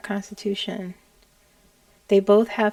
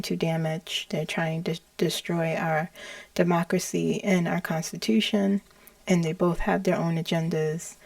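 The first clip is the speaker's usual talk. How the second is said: flat calm; 2 semitones lower than usual. Retold or imitated. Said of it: "Very calm".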